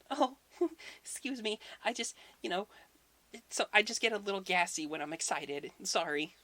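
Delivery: high, giggly put-on lady voice; fake voice. Thor as Freya excuses a belch, coy high fake voice. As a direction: titter and apologize in a false high voice. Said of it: "imagine him doing a fake voice".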